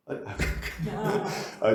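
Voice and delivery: ordinary talk, nothing marked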